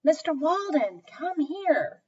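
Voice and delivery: calling out. Acted. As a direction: call the boss over. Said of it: "he shouted".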